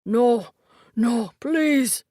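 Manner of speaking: loud, gasping begging; panicked pleading. A narrator's reading. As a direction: beg in terror. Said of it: "gasp in a panicked".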